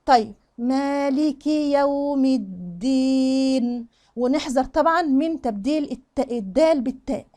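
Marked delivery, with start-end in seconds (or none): 0.6-3.9 very slow recitation with open "يوم"; measured recitation. Shown as a demonstration. Teacher models the corrected verse, slow measured recitation. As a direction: recite slowly, stretching the end of "الدين". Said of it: "تمام؟".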